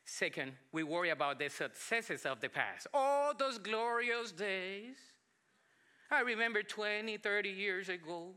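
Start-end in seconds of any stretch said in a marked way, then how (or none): 2.9-8.3 mock nostalgia. Preacher imitating someone missing the glorious past, mock nostalgia.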